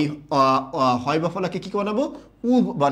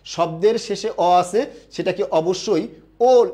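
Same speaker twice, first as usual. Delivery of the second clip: slow teacher emphasis. Shown as a demonstration. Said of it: "এটা উচ্চারণটা সবাই clear?".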